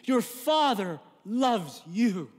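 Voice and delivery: a gentle, slow father's call through the car window; tender father's call. Acted. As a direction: say it like a father forgiving his son. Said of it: "rolls down the window and says to you".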